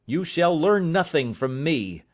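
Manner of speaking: passionate defiance. Acted. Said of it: "with a passion".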